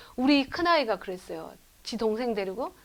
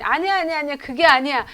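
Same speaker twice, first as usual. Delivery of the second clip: put-on child protesting; 4 semitones higher, 5 dB louder than usual. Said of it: "그랬더니".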